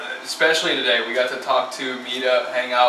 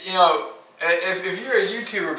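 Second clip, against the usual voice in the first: real amused protest; 8 semitones higher than usual. Real, not acted. Answering a co-host's joke, real laughing protest. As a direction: launch into a rebuttal while still amused.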